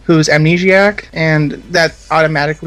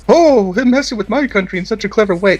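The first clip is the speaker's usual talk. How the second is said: raised, put-on sneering tone; mock dramatic voice; 4 semitones higher than usual. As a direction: play a snooty, offended viewer. Mock voice for imagined viewer reaction.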